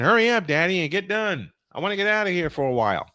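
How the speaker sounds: high, fast, lightly voiced whiny cat; voicing his cat. Voicing his crying cat begging Daddy to hurry, lightly whiny. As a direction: pretend the cat is begging him to finish. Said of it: "He's saying".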